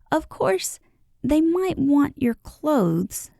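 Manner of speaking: slow, hesitant admission; faltering. A narrator's reading. Peter admitting the birds' danger, faltering. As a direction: drag the words out unwillingly. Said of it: "rather falteringly".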